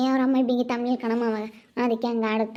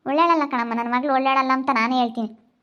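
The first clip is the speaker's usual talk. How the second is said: louder, disgusted condemnation; 4 dB louder than usual. Acted. Mother to bride about her daughter, loud disgust. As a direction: spit out your scorn, louder.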